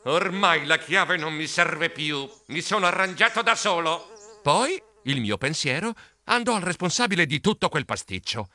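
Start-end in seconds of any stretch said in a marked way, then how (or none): 0.0-4.1 furious grumbling. Acted. Mouse emerging from the rosebush, furious grumbling. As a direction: grumble with understated fury. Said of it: "borbottando furibondo".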